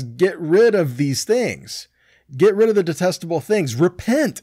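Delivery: forceful divine command; stern command. Retold or imitated. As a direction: order them to get rid of it. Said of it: "how he says".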